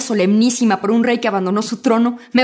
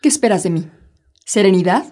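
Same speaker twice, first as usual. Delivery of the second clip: bitter low whisper; 4 semitones lower than usual. Acted. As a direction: breathe it out in a hiss of reproach. Marital quarrel turning bitter.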